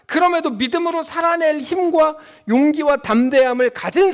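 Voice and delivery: fervent sermon delivery; preaching. Acted. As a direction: proclaim the verse to the congregation. Preaching at force.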